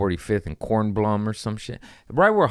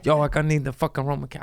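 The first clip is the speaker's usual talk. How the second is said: buddy's excited text; 7 semitones higher, faster than usual. Retold or imitated. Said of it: "My buddies are calling me".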